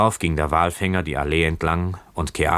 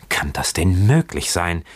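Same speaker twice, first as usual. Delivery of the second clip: exclaimed disbelief; 3 dB louder than usual. Acted. Keawe stunned by the boatswain's refusal, disbelieving exclamation. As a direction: pitch leaping up in a disbelieving question. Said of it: "rief Keawe aus".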